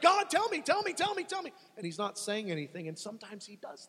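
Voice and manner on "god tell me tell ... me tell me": high, loud, pleading cry to God; desperate plea. Acted. Believer pleading with silent God, desperate high cry. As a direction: beg God for an answer, voice climbing.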